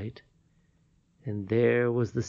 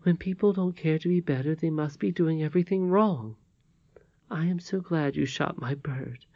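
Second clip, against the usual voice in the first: lightly voiced old lady, higher pitched; kindly old lady; 5 semitones higher than usual. Old lady tells Curdie she is glad, kindly and gently moved. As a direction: counsel the boy in a raised, unforced voice.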